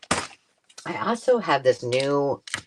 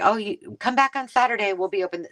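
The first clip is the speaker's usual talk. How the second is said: a lightly voiced old man, higher; older gentleman; 9 semitones higher than usual. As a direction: mimic the old man at the door, a little higher. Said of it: "and he's like".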